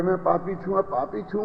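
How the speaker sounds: soft, lowly self-blaming murmur; hushed, humble "मैं पापी छू" repeated; mock meek confession. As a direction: sound small and guilty, quietly. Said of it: "ये कहते कहते जिंदगी निकल गई".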